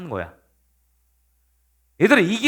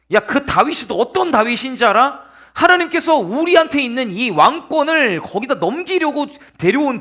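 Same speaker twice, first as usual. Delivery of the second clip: raised, indignant mock scolding; angry accusation; 2 semitones higher than usual. King confronting his son for siding with David, acted outrage. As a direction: play a king berating his disloyal son. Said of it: "이러면서 그 요나단을 낳은".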